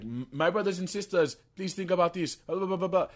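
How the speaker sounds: high, loud mock sermon; preaching train lady. Imitating lady on the train addressing brothers and sisters, high and insistent. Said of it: "she's like".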